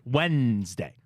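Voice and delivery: "Wednesday" as "Wennnds-day", drawn out; N before D. Shown as a demonstration. Host testing himself, "Wednesday" slowly as "Wennnds-day". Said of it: "I put the N before the D".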